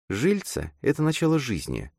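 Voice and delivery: put-on high girl's voice, objecting; objecting girl character. A narrator's reading. Girl disputes what her friend said, objecting. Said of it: "возразила она".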